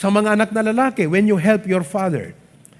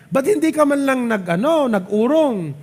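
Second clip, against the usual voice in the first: high-pitched nagging mother quote; scolding mother; 5 semitones higher than usual. Retold or imitated. Mother scolding daughter for dishes, in a high nagging voice. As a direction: mimic a mother scolding her idle daughter.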